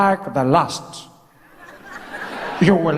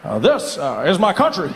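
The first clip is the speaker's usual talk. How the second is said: speech shout. Shown as a demonstration.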